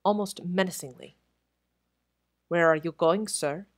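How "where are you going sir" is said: firm, barring the way; stern, menacing. Acted. Head waiter stopping Crutchley in corridor, sternly. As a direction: block him with a cold stern question. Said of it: "he spoke sternly, almost menacingly".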